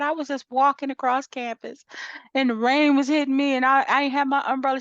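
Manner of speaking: a hint of the friend's complaint; imitating her friend. Friend complaining about the rain, lightly mocked. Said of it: "She said".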